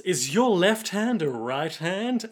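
slow, deliberate interrogation; measured, drawn-out challenge; questioning character voice. Acted. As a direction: draw out each word suspiciously.

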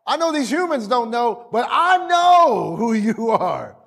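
lightly voiced demon, high and insistent; high, stretched phrases, a touch of drama; demon addressing Jesus. Demon confronts Jesus in sermon.

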